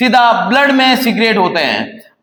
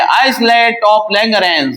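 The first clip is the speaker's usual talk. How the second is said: slow dictation; much slower than usual. Shown as a demonstration. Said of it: "teacher repeats term slowly".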